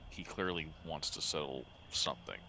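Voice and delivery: low, hushed voiced murmur; soft, secretive stage undertone; whispering. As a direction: confide it quietly to an ally. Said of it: "he's gonna whisper as quietly as he can".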